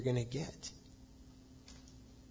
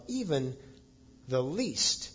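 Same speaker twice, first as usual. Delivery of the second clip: "even" and "least" set apart by a pause; emphatic; slower than usual. Retold or imitated. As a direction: give "even the least" deliberate weight, each part on its own. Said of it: "he's very emphatic about".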